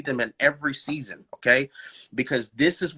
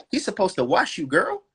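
laughing tease; 8 semitones higher than usual. Real, not acted. Host laughs while teasing women who hate being vulnerable. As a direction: laugh through it, teasing the ladies.

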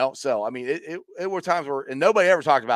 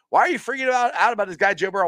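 mocking friends; 7 semitones higher, 4 dB louder, faster than usual. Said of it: "everybody's like, was making fun of me".

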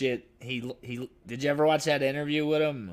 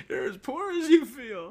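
mock upbeat; 12 semitones higher than usual. Mock cheery line to homeless person.

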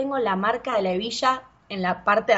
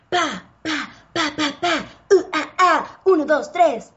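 dance step counting; 4 semitones higher than usual. Shown as a demonstration. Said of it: "con pasitos así".

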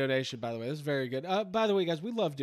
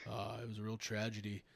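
Bret Hart; 7 semitones lower than usual. Acted. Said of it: "Bret the Hitman Hart's a little bit more like this".

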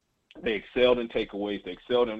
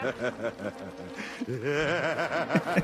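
evil villain laugh; 3 semitones higher, 3 dB quieter than usual. Pretend. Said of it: "my evil villain laugh".

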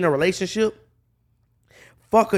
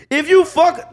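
wrestling promo; 12 semitones higher, 6 dB louder, slower than usual. Real, not acted. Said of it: "you cutting a wrestling promo right now".

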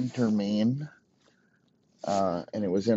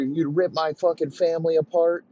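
higher-pitched, lightly acted threatening; mild mock threat; 6 semitones higher than usual. Client threatening to kill the scared girl, mock threat. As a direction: act out a threat, pitched up, not shouted. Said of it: "he starts threatening".

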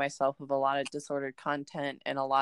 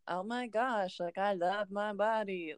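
lightly mocking, higher-pitched gushing; mock self-love talk; 5 semitones higher than usual. Podcaster mocking woo-woo body positivity, in a higher gushy voice. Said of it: "self-love woo-woo talk".

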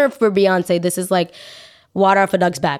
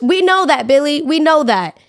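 exasperated retort; 7 semitones higher than usual. Real, not acted. Vlogger scolding a singer, high and exasperated. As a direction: snap back, fed up.

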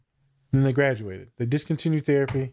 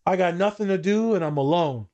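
higher-pitched mock moan; retold woe-is-me complaint; imitated complaining client; 4 semitones higher than usual. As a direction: play up the client's self-pity.

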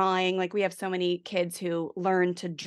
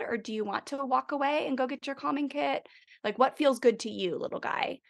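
put-on coaxing a little kid; 5 semitones higher than usual. Shown as a demonstration. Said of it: "That would be, like, a redo".

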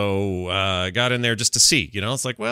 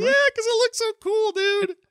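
excited. Real, not acted. Raving about the Doomhammer mod.

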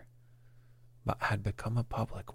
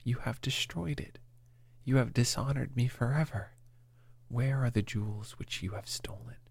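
higher, mildly raging accusation; enraged shout; 4 semitones higher than usual. A narrator's reading. Father accusing his son of theft, understated enraged shout. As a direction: narrate a furious outburst with some restraint. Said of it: "beside myself with rage".

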